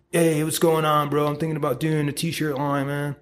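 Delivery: a lightly put-on eager bro voice; silly bro voice. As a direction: play a casual bro pitching his t-shirt idea, lightly. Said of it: "I don't know why I'm doing that voice".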